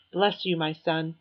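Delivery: slow, lightly voiced reverend blessing; a hint of a gentle preacher; puppet preacher blessing. Puppet Reverend Bob blesses the narrator, slow and solemn. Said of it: "makes the dummy bow its head and say".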